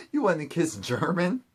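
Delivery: amused, can't-believe-it query; laughing disbelief. Real, not acted. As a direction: laugh into a rising question.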